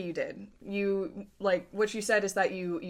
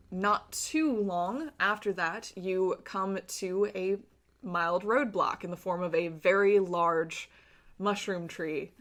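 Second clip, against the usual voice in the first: game master scene narration. A narrator's reading. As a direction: set the scene for the players, measured and atmospheric. GM describes the fungal tunnel.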